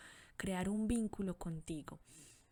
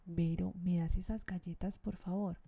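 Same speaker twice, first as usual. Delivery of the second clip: calm, gentle polite request. Shown as a demonstration. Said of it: "Entonces yo calmadamente le digo".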